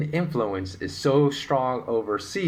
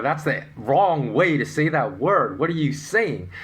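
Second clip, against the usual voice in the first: lightly acted disbelief, higher pitch; mildly indignant objection; 5 semitones higher, 3 dB louder than usual. North Americans rejecting the correct pronunciation, mock indignant. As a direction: play someone correcting a supposed mistake. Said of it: "They say".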